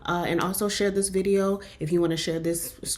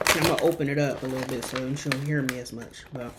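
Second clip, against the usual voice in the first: crunching chips; 4 semitones lower, 3 dB quieter than usual. Real, not acted. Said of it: "so if you hear me crunching".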